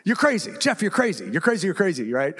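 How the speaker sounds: high, exasperated realtor pleading; incredulous realtor. Retold or imitated. Realtor reacts to the news they are pulling the plug, incredulous high voice. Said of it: "He's like".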